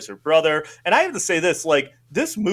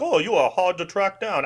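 slightly raised, badly done character impression; lightly voiced, unconvincing character impression; Mister Bean; 3 semitones higher than usual. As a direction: attempt a poor comic impersonation. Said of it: "that's a terrible Mister Bean".

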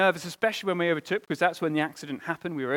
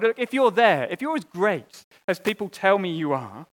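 crying out to God; 3 semitones higher, 6 dB louder than usual. Retold or imitated. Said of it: "you cry out to God".

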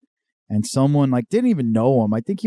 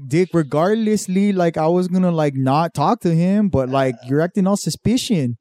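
lightly voiced cholo, raised; cholo misusing big words; 5 semitones higher than usual. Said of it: "So they're like".

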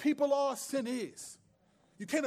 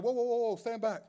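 raised, brisk mock warning; mock warding-off; 3 semitones higher than usual. Disciples keeping little children from Jesus, mock warding-off. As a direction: play a bodyguard holding people off.

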